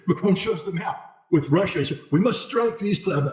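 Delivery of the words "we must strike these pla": half-hearted mock French accent, a bit higher and slower, abandoned mid-word; bad French accent. Voicing Macron pointing at the map, in a bad mock French accent. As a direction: start a French accent as Macron, then give up. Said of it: "I have a very bad French accent".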